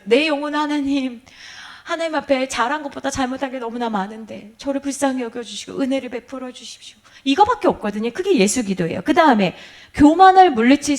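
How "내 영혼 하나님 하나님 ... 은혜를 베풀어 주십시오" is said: hushed penitent prayer. Acted.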